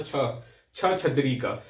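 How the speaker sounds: छ छतरी का drawn out very slowly; teacher slowly reliving how he misread it; old wrong reading. Retold or imitated. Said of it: "पहले मैं भी श ही पढ़ता था".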